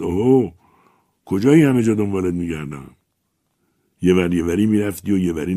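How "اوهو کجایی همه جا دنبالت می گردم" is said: a loud hail across the street; calling out. Acted. Man in a car hails the poet on the bridge, calling out. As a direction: call to him from the car, raised voice.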